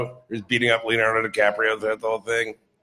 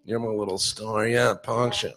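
tender dog praise. Real, not acted.

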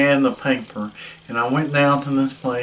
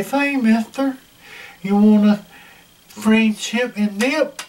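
hawker's call; 6 semitones higher than usual. Retold or imitated. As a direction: call out to passing travelers like a huckster. Salesman hawking at airport booth.

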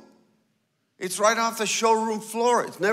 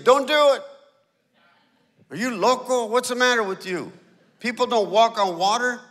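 disciples' warning; 2 semitones higher, 4 dB louder than usual. Retold or imitated. The eleven disciples yelling at Peter not to go, loud alarm. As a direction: shout them down from the boat.

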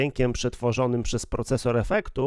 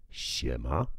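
very low, deep-pitched greeting; beetroot character; 11 semitones lower, 7 dB quieter than usual. Acted. Voice changer demo of a beetroot character, deep low greeting. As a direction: growl a lazy hello like a beetroot creature. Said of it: "można wczuć się na przykład w postać, e, buraczaną".

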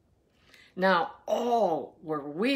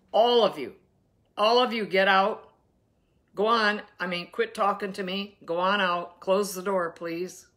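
firm command; 4 dB louder than usual. Acted. Jesus throws mourners out.

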